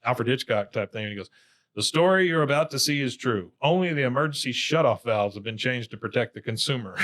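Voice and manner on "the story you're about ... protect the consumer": lightly mock-ominous TV intro; Twilight Zone narrator. Bobby as Hank opens the skit, lightly imitated suspense narrator. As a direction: imitate a measured suspense-show host. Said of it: "kind of in a, uh, Twilight Zone type thing".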